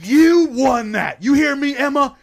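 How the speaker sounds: loud, emphatic fatherly reassurance, slow start; loud insistent dad. Retold or imitated. Dad shouting reassurance to his beaten daughter, loud. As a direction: insist loudly she really won. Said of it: "He's like".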